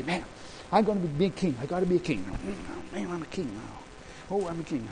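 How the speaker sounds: small, muted mock self-persuasion; mock striving. Preacher showing how not to claim kingship, mock striving. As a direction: mutter it softly as the wrong example. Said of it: "Not, not like that".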